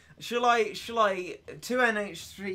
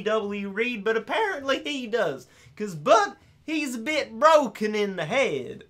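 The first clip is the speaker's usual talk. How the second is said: LaDonna Compson; 6 semitones higher, 4 dB louder than usual. Acted. Greeting Arthur and friends, high LaDonna Compson impression. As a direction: introduce the family in a high put-on character voice. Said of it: "LaDonna Compson".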